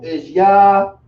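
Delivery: "Yah-ha-wa-da" broken into four even syllables, YAH-ha-WAH-da; teacher modelling "Yah-ha-wa-da" syllable by syllable; Yahawada pronounced. Shown as a demonstration. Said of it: "The word for Jew in the Lashawan".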